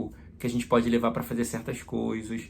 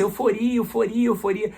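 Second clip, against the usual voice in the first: overexcited; 8 semitones higher than usual. Retold or imitated. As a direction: retell yourself gushing at the first mass, fast. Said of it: "E eu empolgadão na primeira missa".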